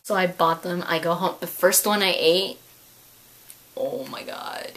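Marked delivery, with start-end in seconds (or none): 3.8-4.7 whispered, hushed delight; whispered bliss. Real, not acted. Recalling eating the first candy, whispered bliss. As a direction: breathe it like a secret pleasure.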